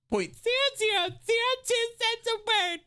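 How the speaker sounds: high mocking voice. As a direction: squeak it out like a ridiculous offer. Mocking a lowball offer.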